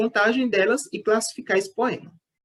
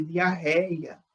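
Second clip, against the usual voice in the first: diarreia drawn out, weight on "rei"; stress on the ré of diarreia; 3 dB quieter than usual. Shown as a demonstration. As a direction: stretch the "rei" in diarreia, then let it drop. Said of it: "a última sílaba tônica, o ré". (diarreia com o "rei" tônico e alongado)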